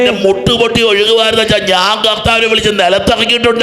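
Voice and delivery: impassioned high-pitched exhortation; fervent preaching. Retold or imitated. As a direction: testify with passion, then challenge the crowd. Preaching retold testimony and challenge.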